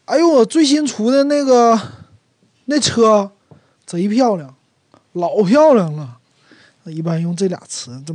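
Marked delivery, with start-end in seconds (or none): 0.0-6.2 higher and louder showing off a new car; bragging excitement. Retold or imitated. A friend brags about his new car, higher and louder. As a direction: boast like a proud new owner, voice up. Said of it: "比如说".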